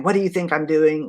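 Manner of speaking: imitating a rude retort, only a touch sharp; hint at the nurse's snap without raising the voice; mild retold snap. Retelling a rude nurse's retort, lightly sharp.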